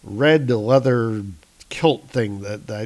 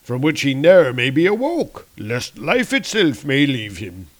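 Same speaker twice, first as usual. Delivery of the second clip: lightly theatrical warrior voice; a touch of grand, ominous warning; Volstagg; 3 semitones higher than usual. Acted. Warrior warning comrades the king may never wake, theatrical. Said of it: "says Volstagg".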